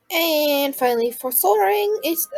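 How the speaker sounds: talking through the hiccups; hiccuping mid-sentence. Real, not acted. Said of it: "sorry, I have the hiccups".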